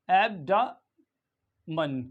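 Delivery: एब्डामन drawn out very slowly; एब्डामन as ab-da-man, very slow; slow pronunciation demo. Shown as a demonstration. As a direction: sound out एब्डामन syllable by syllable. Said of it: "तो इसको पढ़ेंगे".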